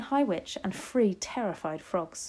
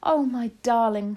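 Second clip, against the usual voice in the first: loud, higher loving exclamation; relieved cry; 4 semitones higher, 7 dB louder than usual. A narrator's reading. Grandmother hugging the child, crying out fondly. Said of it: "she cried".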